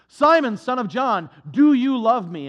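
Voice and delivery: loud, searching question to Peter; Jesus calling out. Acted. Jesus asks Peter on the shore, a loud searching question. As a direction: call it out across the shore, pressing him.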